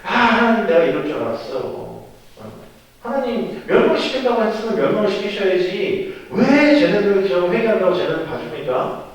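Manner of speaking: worked-up, aggrieved outburst acted in a retelling; angry complaint. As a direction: complain loudly to God as a fed-up Jonah. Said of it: "요나가 막 승질을 내는 거야".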